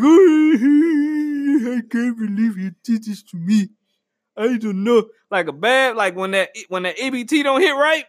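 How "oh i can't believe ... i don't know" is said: mock crying. Imitating a player crying in the locker room, mock sobbing. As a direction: imitate a player wailing in disbelief. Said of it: "went to the locker room crying like".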